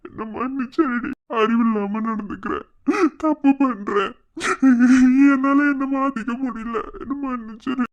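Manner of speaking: tearful, breaking pleas for forgiveness; crying apology. Acted. Husband crying as he begs his wife's forgiveness. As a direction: beg her pardon through tears.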